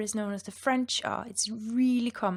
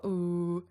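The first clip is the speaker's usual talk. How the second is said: wrong voiced sound; a voiced ooh, the thing to avoid; 3 semitones lower than usual. Shown as a demonstration. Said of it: "Don't voice it, so don't go".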